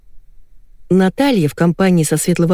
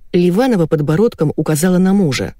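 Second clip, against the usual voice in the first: usual speaking voice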